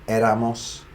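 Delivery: éramos with the stress on the opening É; accented first syllable. Shown as a demonstration. Teacher showing learners where the accent falls, accented first syllable. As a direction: hit the É of éramos, let -amos follow lightly. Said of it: "Notice the accent there".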